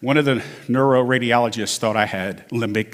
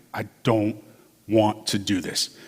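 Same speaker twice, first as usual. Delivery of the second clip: reluctant; 2 semitones lower, 5 dB quieter than usual. Retold or imitated. Reluctant reply to spunky therapist.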